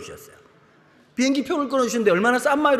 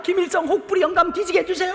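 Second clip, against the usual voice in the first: put-on children's prayer; 9 semitones higher than usual. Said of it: "애들이 막".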